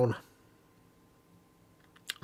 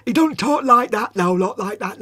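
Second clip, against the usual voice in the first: lisping impression; 7 semitones higher, 6 dB louder than usual. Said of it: "he's not like".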